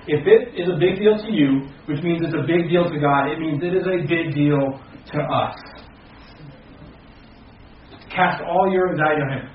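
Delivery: building pulpit fervor; fervent preaching. Acted. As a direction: press it home to the congregation. Rising to passionate preaching.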